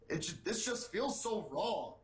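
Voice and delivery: lightly voiced politician complaint; a hint of an aggrieved campaigner; mildly put-on grumbling senator voice; Bernie Sanders. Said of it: "Sanders told his staffers".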